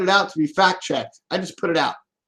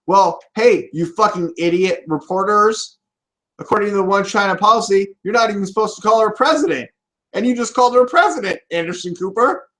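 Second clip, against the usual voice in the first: fast rant; 5 semitones higher than usual. Real, not acted. Ranting at reporters.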